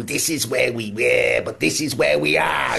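a lightly voiced politician making a rousing pledge, rising to a mock shout on the second half; half-hearted stump-speech voice with the last phrase called out; mock conference rallying cry, lightly done; Andy Burnham impression. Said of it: "Brilliant impression".

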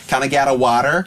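put-on American "water", a laugh close by; American-accent impersonation. Former boss mimicking his kids, mock American accent. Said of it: "he impersonates them".

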